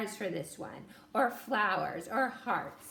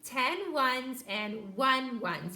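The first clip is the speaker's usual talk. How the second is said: slow counting; much slower than usual. Shown as a demonstration. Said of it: "that's how we did it".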